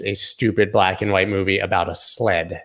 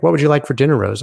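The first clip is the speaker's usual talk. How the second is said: lightly voiced Jack, higher and louder; mock Jack; 6 semitones higher, 5 dB louder, faster than usual. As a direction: ham up Jack's romance. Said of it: "Nobody talks like that".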